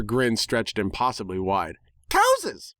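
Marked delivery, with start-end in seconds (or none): 2.1-2.7 much higher cry of the word Cowses; gleeful pony shout. Acted. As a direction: squeal it like a delighted cartoon pony. Pinkie shouts the silly word.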